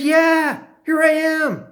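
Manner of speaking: high, drawn-out reassurance; emphatic reassurance. Retold or imitated. Answering the doubting knifeman.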